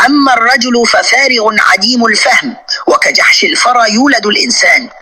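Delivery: quoting scripture. Retold or imitated. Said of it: "اسمع ماذا قال يسوعك".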